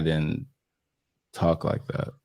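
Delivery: near whisper. Real, not acted. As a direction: drop to a whisper.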